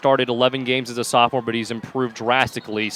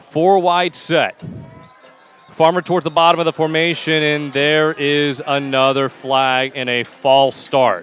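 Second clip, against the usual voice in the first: pitched-up set call, stretching out into the penalty; live play-by-play; 3 dB louder, slower than usual. Real, not acted. Announcer spots a flag before the snap, drawn-out play-by-play. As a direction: call the formation, then draw out the flag.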